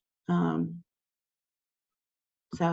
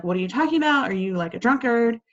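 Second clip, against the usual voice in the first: ridiculing; 4 semitones higher, faster than usual. Retold or imitated. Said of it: "she's ridiculing him".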